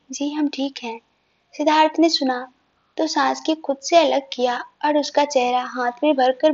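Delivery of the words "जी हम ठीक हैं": barely above a murmur, reassuring; quiet, gentle reassurance to her husband; softly. Acted. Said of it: "वो धीरे से बोली". (पत्नी की धीमी, कोमल आवाज़ में "जी, हम ठीक हैं")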